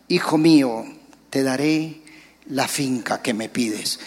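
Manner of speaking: soft, low, tender promise; gentle God. Retold or imitated. God promising his son the farm, soft and low. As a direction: promise softly like a loving father. God's voice granting wish.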